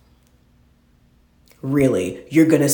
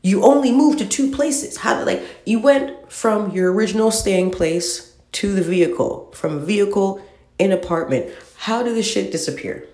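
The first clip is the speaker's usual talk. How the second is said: incredulous rant; 7 semitones higher than usual. Retold or imitated. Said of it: "And I'm like".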